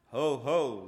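loud, spoken ho-ho; a theatrical villain's spoken chuckle; mock laugh. A narrator's reading. Veteran demon scoffing at the others, mock laughing. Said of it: "laughed old Alcohol".

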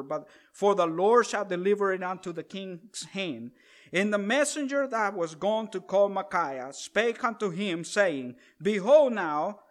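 measured, solemn Bible reading; scripture reading. Acted. Preacher reading the kings' story to the congregation, solemn scripture reading. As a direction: read the old King James story with gravity.

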